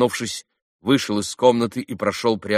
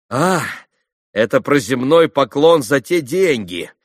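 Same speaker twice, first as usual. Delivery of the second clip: bitter laugh; 5 semitones higher, 7 dB louder, slower than usual. A narrator's reading. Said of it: "горько рассмеявшись".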